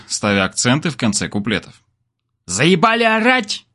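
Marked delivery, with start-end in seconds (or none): 2.5-3.7 high, slow angry yell from a balcony; barked. A narrator's reading. Unseen neighbour woman barking at singers from a balcony. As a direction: bark it at the noisy singers, much higher. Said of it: "рявкнула с какого-то балкона невидимая тётка".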